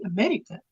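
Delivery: "America" with a quick tapped R; rolled R. Shown as a demonstration. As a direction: tap the R in "America" the South African way. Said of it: "you call that rolling your R".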